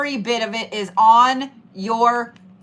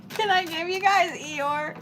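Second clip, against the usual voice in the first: higher, softer mopey donkey voice; mock Eeyore voice; 6 semitones higher, 5 dB quieter than usual. Tarot reader asks viewers in a soft mock Eeyore voice. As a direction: say it again like a gloomy Eeyore. Repeats the line in a silly voice.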